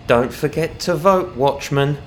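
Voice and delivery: high, lilting parting jibe; taunting dark elf villain. A narrator's reading. Dark elf taunting the watchman before jumping, mocking. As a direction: toss it off as a mocking farewell.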